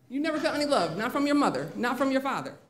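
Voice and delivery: disbelieving question. Retold or imitated. Teacher to students who never felt love, incredulous. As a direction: press each phrase in disbelief.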